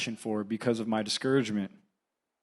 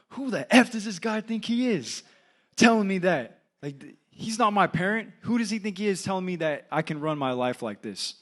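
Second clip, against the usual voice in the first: a much higher, heated rant, retold from memory; pissed off; 7 semitones higher than usual. Young man rants to his mom in the car, pissed off. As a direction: fume like a young man who has just been insulted. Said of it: "really pissed off".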